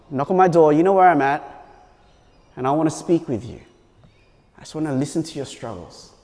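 caring boss. Pretend. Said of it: "shoots them an email and says".

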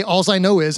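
"alls I know is" with an s ending alls; Midwestern phrasing. Shown as a demonstration. Pastor teasing locals about their accent, Midwestern phrasing. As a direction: quote the local "alls" for all. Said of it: "people don't say".

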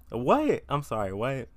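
high, loud startled cry; shocked what. Retold or imitated. Retelling the teacher's news, a loud shocked yelp. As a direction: shout the word in disbelief. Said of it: "And I was like".

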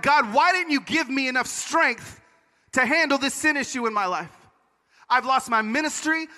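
anguished complaint, re-enacted; angry at God. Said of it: "I was so angry at God".

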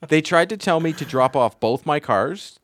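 loud, high, through laughter; amused and incredulous, laughing while talking. Real, not acted. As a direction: laugh your way into the story. Laughing at chat's question.

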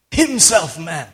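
"Himself" stretched out slowly; emphasis on himself. Shown as a demonstration. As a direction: lean on "Himself", then drop to "man". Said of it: "I like that emphasis".

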